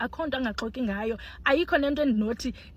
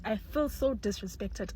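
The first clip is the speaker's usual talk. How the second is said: slow and much softer repeat; resigned, soft; 6 dB quieter, slower than usual. Real, not acted. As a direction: let it fade in resignation.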